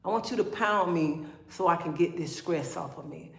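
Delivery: lightly acted intimate plea, kept low; acted request to a lover. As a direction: drop down into a soft pretend bedroom request. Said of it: "Don't even much say".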